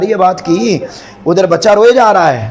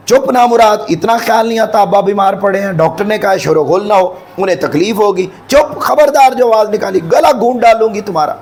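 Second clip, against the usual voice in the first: scolding mother; 4 semitones higher than usual. Acted. Wife scolds noisy child.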